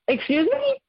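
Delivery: the second, sharper excuse me; outraged excuse me. Retold or imitated. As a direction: disbelief boiling over. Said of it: "I was furious".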